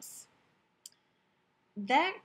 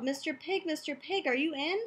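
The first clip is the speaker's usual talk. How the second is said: higher sing-out to someone indoors; calling out; 4 semitones higher than usual. Acted. Wolf calling at the pig's stick house, lightly calling out. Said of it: "I called".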